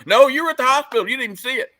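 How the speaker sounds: high, loud protest cutting in; indignant retort. Retold or imitated. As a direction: snap back, outraged. Heated retort in retold argument.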